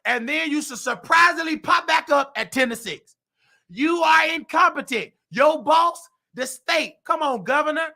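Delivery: shouted accusation, pushing hard on are; angry shout. Real, not acted. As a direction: yell it at the investigators. Ranting at the state investigator.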